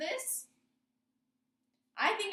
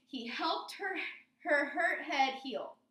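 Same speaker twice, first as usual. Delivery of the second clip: slow tongue twister; slower than usual. Shown as a demonstration. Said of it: "that's kinda tricky to say".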